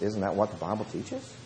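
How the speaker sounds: retold whispering. Preacher retelling his answer to a yelling man, hushed. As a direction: answer softly to calm him down. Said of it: "I started whispering".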